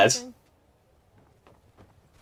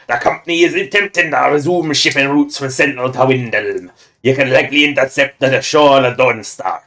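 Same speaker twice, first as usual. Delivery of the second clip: bad pirate accent. Shown as a demonstration. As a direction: read the orders like a hammy pirate. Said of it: "we've found a new, new worse pirate accent".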